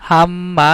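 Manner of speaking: হাম্মা with a long hummed ম; doubled consonant. Shown as a demonstration. Teacher showing the tashdid rule, হাম্মা with doubled ম. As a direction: hold the m in হাম্মা before releasing it. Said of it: "একটা অক্ষর দুইবার উচ্চারণ করতেছি".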